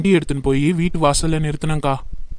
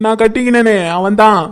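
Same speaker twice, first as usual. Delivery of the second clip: crying. Acted. Wife tells her friend how her husband cheated her, crying. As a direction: lament it through sobs. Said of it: "இப்ப அழுவுறதை நிறுத்து".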